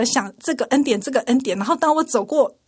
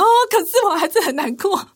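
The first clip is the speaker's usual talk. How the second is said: sad; 7 semitones higher than usual. Real, not acted.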